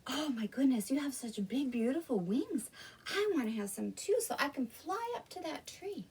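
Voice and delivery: lightly voiced eager piglet; excited little pig. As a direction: gush with mild storybook excitement. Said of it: "was so excited and said".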